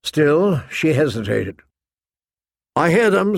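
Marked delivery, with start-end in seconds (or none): 2.8-3.4 calling out. A narrator's reading. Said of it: "Sir Roderick called out".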